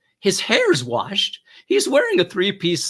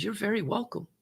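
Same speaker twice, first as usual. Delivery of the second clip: soft, higher-pitched courtesy; gentle reply; 5 semitones higher, 7 dB quieter than usual. Retold or imitated. Officer answering fiance's thanks, gently. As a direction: answer her softly and sweetly.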